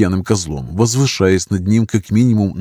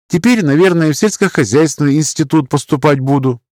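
put-on higher, brighter girlish voice, naive and earnest; a shy country girl telling her story; voiced young woman, chatty and sincere; young village girl; 8 semitones higher, 3 dB louder than usual. Young milkmaid Alyona speaks.

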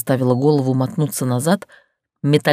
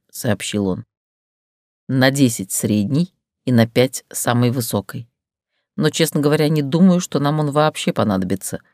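lightly voiced confident man explaining; calm man; 3 semitones lower than usual. Tergran reassures her, lower calm male voice.

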